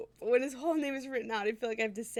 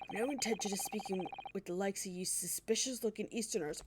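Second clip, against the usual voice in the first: Scottish governor, scornful; 3 dB quieter than usual. Acted. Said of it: "this man is Scottish".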